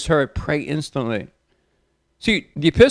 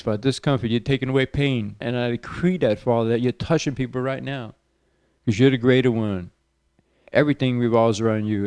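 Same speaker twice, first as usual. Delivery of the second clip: healing prayer. Acted. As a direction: pray over the listeners, calling healing into them. Radio preacher leads healing prayer.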